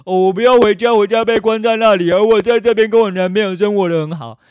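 high, loud, hammed-up whine; sneering mock of the rescued victim; mocking whiny victim. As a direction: parody a smug victim bragging about her boyfriend. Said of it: "你他妈觉得说".

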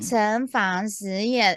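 very slow Taiwanese-accented Mandarin. Shown as a demonstration. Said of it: "你讲台湾国语也可以".

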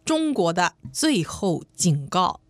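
put-on slow, official Beijing accent reading. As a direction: read it slowly like a Beijing party secretary. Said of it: "这个北京腔讲这句话".

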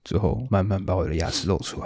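normal talking voice

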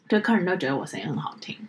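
half-whispered brag; whispered aside. Real, not acted. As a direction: whisper it like a secret boast. Mock-modest boast aside.

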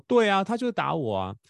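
put-on boy repeating that his brother hit him; imitating son. Son insists to father, retold.

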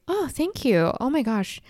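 mock polite gushing. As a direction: play the sweet child hiding disdain. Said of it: "Like, I would be like".

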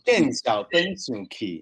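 “见小灯生气” spoken slowly and carefully in Taiwanese; Taiwanese phrase said correctly. Shown as a demonstration. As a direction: spell out “见小灯生气” slowly, one syllable at a time. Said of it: "你刚说那句台语叫什么".

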